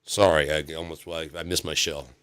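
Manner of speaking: soft, drowsy turtle voice; nodding off. Retold or imitated. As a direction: mumble like a sleepy old turtle. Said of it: "this turtle".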